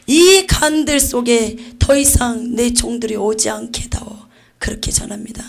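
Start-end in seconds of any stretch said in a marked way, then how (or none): 0.1-4.2 loud, slow solemn plea; slow solemn entreaty; God pleading. Acted. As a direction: plead earnestly for his servants.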